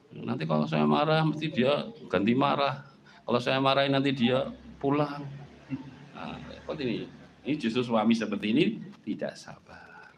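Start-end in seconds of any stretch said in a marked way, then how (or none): 0.1-5.3 timid husband. Acted. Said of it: "Mau marah nggak berani kok".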